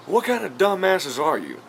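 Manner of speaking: high, slow mock scolding; imitated angry insult. Vlogger mimicking redneck insulting the film crew, mock-angry. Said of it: "like, swearing at me".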